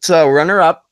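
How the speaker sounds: talking while eating; words round a bite of food; mouth full. Real, not acted. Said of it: "Are you eating right now, bro?".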